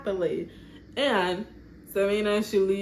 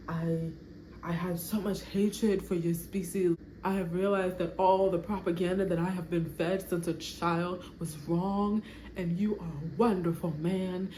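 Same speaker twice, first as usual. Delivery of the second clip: heartfelt confession. Acted. Alien bride confessing her lie to the groom, tender and pleading. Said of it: "where did that come from".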